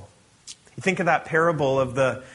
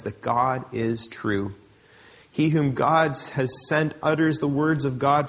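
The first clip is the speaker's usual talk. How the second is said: formal, measured scripture reading. Acted. Pastor reading John to the church, measured and solemn. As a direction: read the passage with weight to the congregation.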